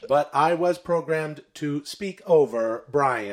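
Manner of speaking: slow, measured robot statement; deadpan machine. Acted. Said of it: "I am a robot".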